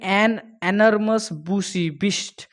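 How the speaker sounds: slow, ominous read; dramatic quote. Shown as a demonstration. Teacher reading the scary line slowly and dramatically. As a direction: make the beast sound menacing.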